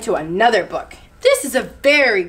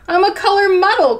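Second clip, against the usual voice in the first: higher-pitched wail of complaint; crying out in dismay; 7 semitones higher, 4 dB louder than usual. A narrator's reading. Chameleon telling friends about his muddle, mildly wailing. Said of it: "Chameleon cried".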